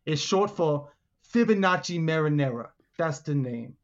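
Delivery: lightly voiced big boss; a touch of the self-important boss; Big Notch. Boss introducing himself to visitors, lightly voiced big shot. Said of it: "you hear this booming voice".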